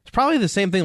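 ordinary talk

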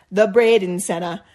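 put-on light Bahamian accent, laughing; lightly put-on Bahamian accent. Reading the lady's T-shirt in a light Bahamian accent. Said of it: "in my Bahamian accent".

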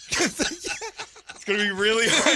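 words breaking into laughter; fighting back a laugh. Real, not acted. Trying not to laugh on air.

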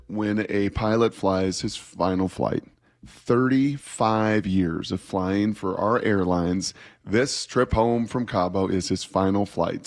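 imitating an unhurried flight attendant's announcement; slow, measured delivery with pauses, reassuring passengers; lightly acted composed cabin announcement; calm and composed. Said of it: "he was totally calm and composed".

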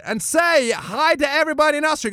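high camp Austrian TV host; gay Austrian character. Retold or imitated. Bruno interviewing the wrestler, high camp prompt. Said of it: "the gay character".

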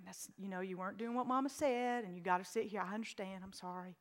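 put-on calm a frightened child gently; soothing. Mother comforting soaked child.

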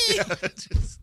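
high, loud burst of laughter; laughing hard. Real, not acted. Host cracking up at his own joke.

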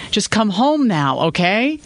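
put-on high, pleading little-boy voice. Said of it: "like a little boy when he pleaded".

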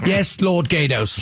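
lightly voiced obedient servant; Renaissance impression. Co-host showing callers an example, lightly voiced Renaissance servant. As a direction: give a low, servile reply. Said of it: "Chad, your example?".

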